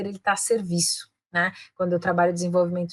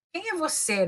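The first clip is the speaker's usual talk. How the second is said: haughty, higher-pitched challenge; looking down on someone; 8 semitones higher, 3 dB quieter than usual. Shown as a demonstration. Teacher demonstrating the wrong intonation, condescending. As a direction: question them as if beneath you. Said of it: "aquele jeito, looking down at the person".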